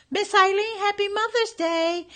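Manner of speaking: put-on high, tiny mousy girl voice; high mousy voice imitation; imitating a mousy voice. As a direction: squeak it out like a little mouse. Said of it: "she imitated Kiana's voice".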